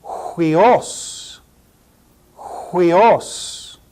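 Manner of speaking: Huios with a breathy H, HWEE-os; rough breathing. Shown as a demonstration. Teacher modeling the rough-breathing diphthong, breathy H. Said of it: "a diphthong with rough breathing".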